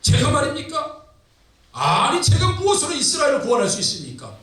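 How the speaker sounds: high, incredulous protest, acted out; Gideon. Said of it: "기도원이 뭐라 그러니". (높은 음조로 황당한 듯 사양하는 연기)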